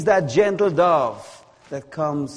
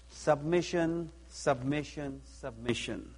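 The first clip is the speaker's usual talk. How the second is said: fading repetition; 13 dB quieter than usual. Acted. Repeating the key word, fading.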